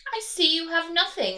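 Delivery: bully them like a greedy rat; big villainous rat; highway rat voice. Acted. Rat speaks to duck.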